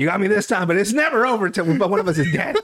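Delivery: laughing, hammed-up villain vow; a light Joker-style threat; mock supervillain. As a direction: swear revenge like a comic-book villain. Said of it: "It's like the Joker and Batman".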